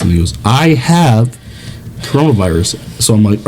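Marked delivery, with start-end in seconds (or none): 0.4-2.8 mock-earnest, paused before the last word; sincere. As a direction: imitate a friend saying it straight. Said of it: "sincere tone in your voice".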